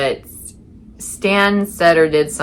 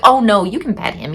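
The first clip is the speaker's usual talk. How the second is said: raised-pitch imitation of insistent onlookers; mock insistence; 6 semitones higher than usual. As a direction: mimic someone insisting, pitched up. Mimics people insisting dog is friendly.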